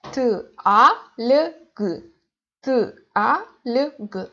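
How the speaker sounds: T, a, l, g sounded out separately; one sound at a time, T, a, l, g; letter by letter. Shown as a demonstration. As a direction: break the syllable into T, a, l, g. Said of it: "one syllable that consists of four letters".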